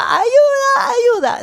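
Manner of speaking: mock very high little child's shouting cries. Retelling how he shouted for help whenever he needed something, retelling a shout for help. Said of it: "porque gritaba".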